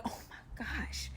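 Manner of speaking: slow, breathed-out alarm; whispered dread. Retold or imitated. Captive dreading the friend's advice, slow whisper. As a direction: whisper it, drawn out.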